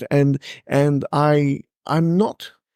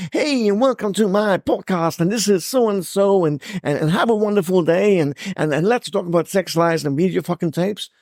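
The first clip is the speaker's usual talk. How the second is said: lightly hammed-up upbeat podcaster, a bit higher; mock podcast host; 5 semitones higher than usual. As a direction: parody a breezy podcast intro. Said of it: "those folks who are able to go".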